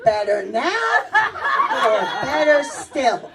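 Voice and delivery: slow, drawn-out either-or question; eye doctor's exam patter. Retold or imitated. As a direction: imitate an optometrist comparing lenses. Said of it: "You know, Tony goes".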